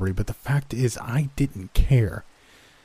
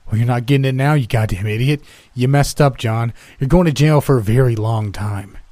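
loud, high scornful shouting; angry taunt; 3 semitones higher, 7 dB louder than usual. Acted. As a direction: spit the insults back at him. Bound old man taunting robber.

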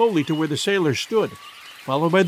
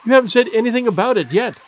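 cry out; 5 semitones higher, 4 dB louder, faster than usual. A narrator's reading. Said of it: "cried the girl".

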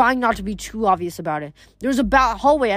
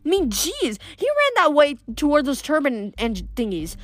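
machine gun chatter, higher and breathless; rapid-fire talk; 4 semitones higher than usual. Acted. Girl distracts the skeletons with rapid nonstop chatter. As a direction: rattle it off nonstop to the guards. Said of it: "rapid machine gun way of hers".

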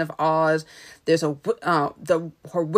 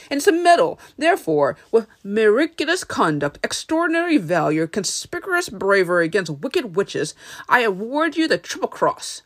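Wizard of Oz; 2 semitones higher than usual. Acted. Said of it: "the Wizard of Oz".

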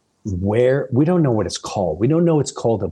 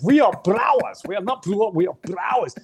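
proud announcement; 10 semitones higher than usual. Retold or imitated. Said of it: "I'm like".

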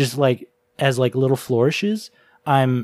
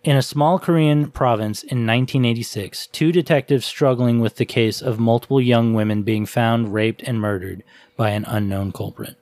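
reading aloud. Shown as a demonstration. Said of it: "Can I read the I M D B synopsis?".

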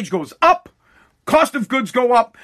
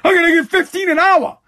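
mocking naive voter; 7 semitones higher than usual. Mocking a naive Biden supporter, hammed-up dumb voice. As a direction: sneer at someone who believes the promise. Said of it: "You're an ass if you sit there and you're like".

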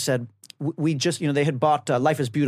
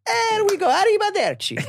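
high, hammed-up Italian; cheeky Italian goodbye; Italian accent. Butlers voiced after punting cat.

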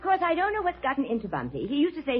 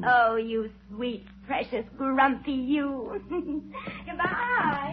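gushing goodbye; slower than usual. Acted.

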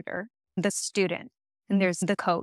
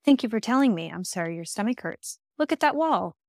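firm command; 3 semitones higher than usual. Shown as a demonstration. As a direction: brush past it and repeat the command. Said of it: "you give the command again".

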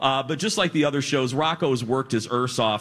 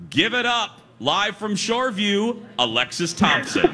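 higher pitched hype intro; announcer hype; 6 semitones higher than usual. Acted. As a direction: hype the crowd for the caller. Announcing phone guest.

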